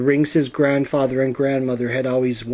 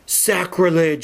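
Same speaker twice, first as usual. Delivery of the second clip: higher, indignant shout; outraged shout; 6 semitones higher than usual. A narrator's reading. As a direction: bellow it at the desecration. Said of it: "shouted Bedwyr".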